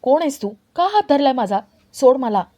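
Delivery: half-acted yell of a woman being grabbed; woman cries out to be let go, mildly shouted; mild mock scream. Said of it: "Vallari मोठ्याने ओरडते".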